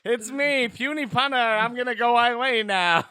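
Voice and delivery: a hint of a high goofy character; lightly voiced dorky pun guy. Puny Punter voice, later named.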